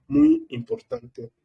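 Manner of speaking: muy lifted high and drawn out slowly; teacher stressing muy importante. Shown as a demonstration. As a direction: stretch the first muy high, then importante. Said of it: "Es muy".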